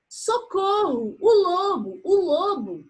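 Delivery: high, panicked cry for help; terrified shout. Acted. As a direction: scream for help in terror. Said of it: "gritou o pastor, apavorado".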